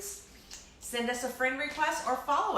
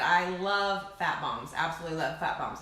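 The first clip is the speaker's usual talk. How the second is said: talking through a mouthful; words round a bite of food; mouth full; 4 semitones lower than usual. Real, not acted. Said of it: "talk with my mouth full".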